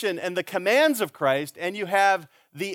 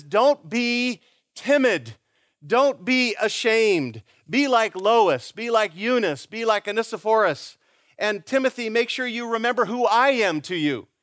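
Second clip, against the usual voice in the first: urgent fatherly charge; 5 semitones higher than usual. Acted. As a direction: look him in the eye and press each word. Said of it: "he looks Timothy right in the eye and he says".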